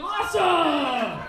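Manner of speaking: high, long-drawn whoop; loud sarcastic cheer; mock thrilled cheer. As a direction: stretch it out in over-the-top delight. Friends' mock-thrilled reply.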